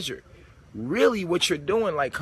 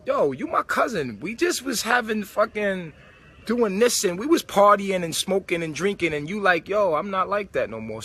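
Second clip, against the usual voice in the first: imitating old friend; 5 semitones higher than usual. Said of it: "look at us and be like".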